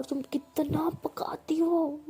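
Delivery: slow, breathy, fed-up whisper; whispered and slow, utterly fed up with her chatter; exasperated whisper. Acted. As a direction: sigh the words out, worn down. Peehu fed up with Bhavna.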